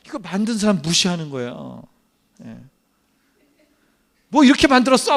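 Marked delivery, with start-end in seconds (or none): 4.3-5.2 acted scoffing, a touch higher; mock someone's handiwork. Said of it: "조롱하고 비웃고". (비웃듯 트집 잡는 흉내)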